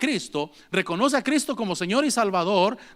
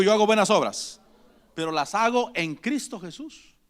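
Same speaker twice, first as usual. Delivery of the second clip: lead-in for the congregation. Shown as a demonstration. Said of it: "Diga conmigo".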